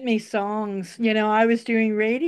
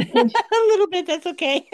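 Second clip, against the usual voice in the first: laughing through the words; 6 semitones higher than usual. Real, not acted. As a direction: chuckle it out. Laughing at the barking dogs.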